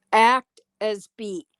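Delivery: ordinary talk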